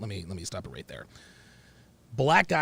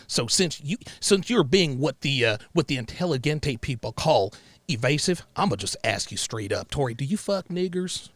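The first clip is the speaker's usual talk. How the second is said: put-on Mississippi accent. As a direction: play a stern but restrained Southern gentleman. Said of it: "you imitating my accent".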